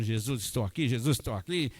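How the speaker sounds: normal talking voice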